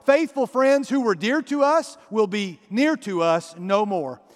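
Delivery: lyrics read out with gentle sway; half-chanted, rhythmic poem reading; recited lyrics. Retold or imitated. Preacher recites the original sad lyrics to the congregation, rhythmic. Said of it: "Here are the original lyrics".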